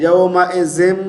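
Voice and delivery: यौमाइजिम as quick "yao-ma-e-zem"; wrong reading. Shown as a demonstration. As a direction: show faulty यौमाइजिम with e and buzzing z. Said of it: "जे नहीं है".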